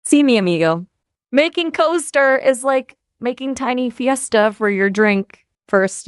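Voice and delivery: playful mock Mexican accent; hammed-up Mexican accent. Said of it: "but in a Mexican accent".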